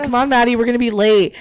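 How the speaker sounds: imitated bright-eyed summons; eager urging. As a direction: call him along excitedly, as a retelling. Acts out excited bride calling groom.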